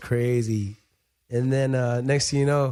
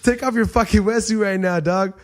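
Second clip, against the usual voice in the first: higher, louder order; mock threat; 7 semitones higher, 4 dB louder than usual. Man ordering the thief to hand over his wetsuit, loud high demand.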